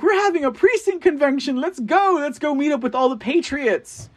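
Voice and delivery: high, bright-eyed call to rally the patriots; mock eager invite. Host mimicking his own hopeful invite, high and eager. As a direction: pitch it way up like an overeager organizer. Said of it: "I was like".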